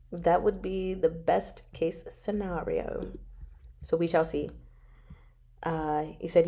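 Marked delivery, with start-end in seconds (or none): 0.1-3.1 hushed, softer, slow whisper; a slow, softer wishful whisper. Real, not acted. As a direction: breathe it like a secret wish. Dreamy wish about a book.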